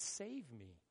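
soft, low "Save me." almost under the breath; quiet plea. Shown as a demonstration. Preacher translating hosanna, first take soft. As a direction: murmur "Save me." as a private plea. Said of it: "it's translated".

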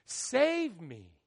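"Save me." said out loud, at full voice; pleading out loud. Shown as a demonstration. Preacher translating hosanna, second take full voice. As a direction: call "Save me." out as a cry. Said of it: "it's translated".

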